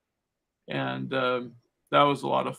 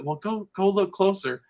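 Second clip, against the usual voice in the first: higher-pitched imitation of a girl; girls egging on; 6 semitones higher than usual. Girl sending her friend toward the scarecrow, imitated higher, urging. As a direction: lightly mimic urging a friend. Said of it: "I heard them talking".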